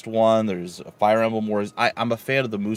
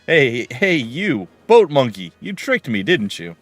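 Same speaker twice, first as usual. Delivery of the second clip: lightly voiced feisty young woman, louder and higher; voicing Marcia; 4 semitones higher, 7 dB louder, slower than usual. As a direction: read it as a spunky girl calling out. Reading Marcia's game dialogue.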